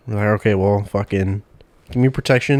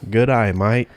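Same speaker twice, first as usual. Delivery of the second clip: "Good eye, mate" with an Australian "maite"; Aussie "good eye, mate"; Aussie accent; slower than usual. Shown as a demonstration. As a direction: drop into a light Australian "G'day mate" sound. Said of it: "Aussie accent".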